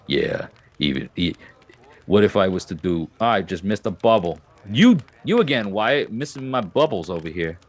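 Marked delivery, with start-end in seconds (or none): 0.1-4.4 put-on drunken Texan. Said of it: "beautiful drunken Texan voice".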